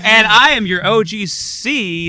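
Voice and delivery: laughing. Acted. Boastful gangsta self-intro.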